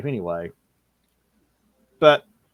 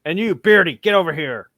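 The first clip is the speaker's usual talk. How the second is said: loud, higher-pitched summons; calling out; 6 semitones higher, 8 dB louder than usual. Acted. Ranger calls the bearded companion over, loud summons. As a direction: holler to someone across a field.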